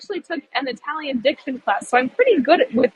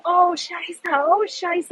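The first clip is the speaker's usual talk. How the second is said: higher, fretful mock swearing; imitating a panicked German lady; 5 semitones higher, much slower than usual. Stranded German tourist cursing at the missing bus sign, higher mock panic. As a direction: play the nervous tourist cursing under her breath. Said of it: "she's sitting swearing to herself".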